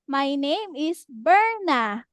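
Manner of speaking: put-on slow, clear model line for a child; slow model sentence. Shown as a demonstration. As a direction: say it slowly so the child can copy. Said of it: "For example, teacher's Berna's name".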